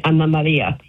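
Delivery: "Anna Maria" as AHN-na ma-REE-a; Italian-style name. Shown as a demonstration. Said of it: "In Italy, they would be calling me".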